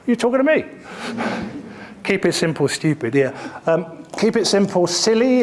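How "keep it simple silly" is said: a cheeky, softened silly; polite version. Real, not acted. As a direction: lift silly up brightly. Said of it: "if we're being more polite".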